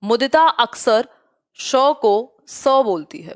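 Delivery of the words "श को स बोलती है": teacher isolating श, then स, very slowly; sound contrast demo. Shown as a demonstration. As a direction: slowly set श against स. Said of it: "जो श को स बोलती".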